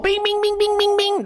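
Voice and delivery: high sing-song imitated pinball bells; ping it out like a pinball machine; pinball bings.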